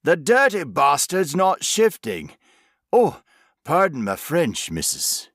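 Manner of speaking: loud rural grumble, then sheepish; broad country workman cursing; country accent. A narrator's reading. Workman swearing then apologising.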